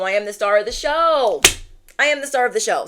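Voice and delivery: loud excited affirmation. Real, not acted. Reader models viewers' affirmation, excitedly. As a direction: chant it with growing excitement. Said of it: "I'm getting a little excited".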